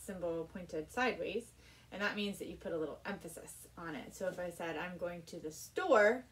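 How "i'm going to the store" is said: store leaned on, slower and louder; stress on store. Shown as a demonstration. Violin teacher demonstrating an accent on store. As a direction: put a little extra weight on store. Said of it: "the word that I put emphasis on would be store".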